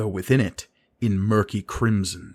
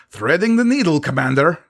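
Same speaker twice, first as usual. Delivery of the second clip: much higher and louder, fierce; defiant acknowledgment; 7 semitones higher, 5 dB louder, faster than usual. A narrator's reading. Sisay answers Gerard, fierce bravado. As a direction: accept the dare.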